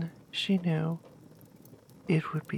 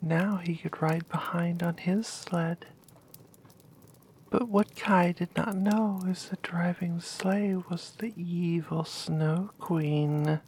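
whispered story. Acted.

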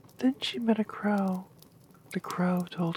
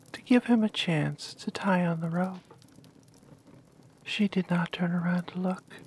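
whispered story. Acted.

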